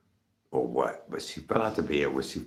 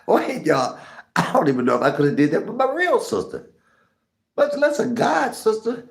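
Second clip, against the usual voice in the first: laughing while talking; 5 dB louder than usual. Real, not acted.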